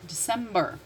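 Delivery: December with a sounded final R; American pronunciation. Shown as a demonstration. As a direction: model December the American way, r on the end.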